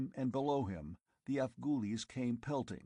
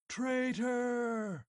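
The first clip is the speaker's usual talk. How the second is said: shrieking howl, far higher and louder; 13 semitones higher, 3 dB louder than usual. Acted. Tribesmen howling at Conan from the canyon, furious. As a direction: howl it as an accusation. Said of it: "The howl".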